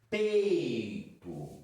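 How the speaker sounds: "Peito" said slowly, stretching the oral ei glide; showing the diphthong. Shown as a demonstration. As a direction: draw out the ei in "Peito". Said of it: "ó". ("Peito" bem pausado, mostrando o ditongo oral)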